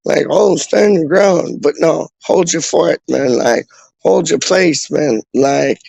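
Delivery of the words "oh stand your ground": mock lame version. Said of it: "That sounds, like, a bit lame".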